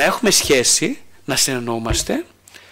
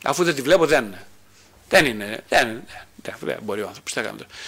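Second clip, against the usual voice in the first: resigned giving up; 4 semitones lower than usual. Acted. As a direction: lower voice fading away into resignation. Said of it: "κάποια στιγμή λέω παρετούμε".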